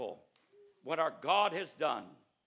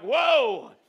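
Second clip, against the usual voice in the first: retold awe; 9 semitones higher, 16 dB louder than usual. Reacting to Copeland's finger.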